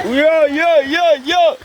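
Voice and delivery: high repeated falsetto hoots; playful whooping. Pretend. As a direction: yip it out in quick bursts. Whooping along with the kids.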